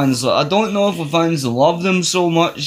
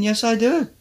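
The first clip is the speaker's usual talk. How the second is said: emphatic yes; 10 semitones higher, 3 dB quieter than usual. Real, not acted. Emphatic answer to own question.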